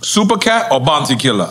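light Jamaican lilt in the question; Jamaican accent. Real, not acted. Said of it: "Jamaican accent keep coming out of me".

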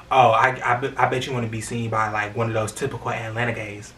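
retold sarcastic comeback. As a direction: toss it off with understated sarcasm. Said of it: "I said sarcastically".

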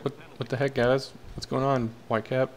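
mildly exasperated, pleading coach; unhappy coach. Acted. Coach complaining to the team over penalties, mildly exasperated. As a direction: lightly act out a coach's complaint. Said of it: "He is not happy. He's like".

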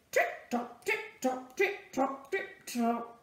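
bouncy quick trip-trot; perky clip-clop; lively hoofbeats. Acted. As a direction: trot along with fresh energy. Energetic donkey again.

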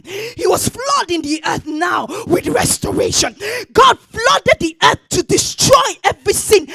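shouted sermon, high and loud; full-force preaching. Acted. Preacher proclaims restoration through Jesus, shouted preaching. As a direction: build to a shouting pulpit climax, stretching the last words.

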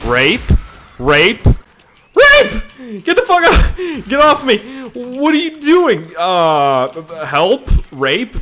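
high panicked screams of get off; hammed-up shrieking for help; mock panicked yelling. Goat yelling at the goat on top of it, hammed-up panic.

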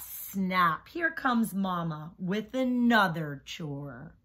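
rhythmic rhyming read-aloud; reading to children. A narrator's reading. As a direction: bounce the rhymes for young listeners. Reads picture book to class.

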